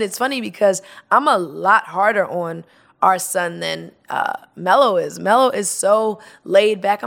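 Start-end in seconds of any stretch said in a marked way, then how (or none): none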